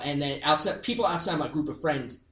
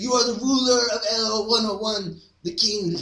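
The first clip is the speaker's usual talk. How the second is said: exchange student voice; 5 semitones higher than usual. Retold or imitated. Exchange student addressing Clyde.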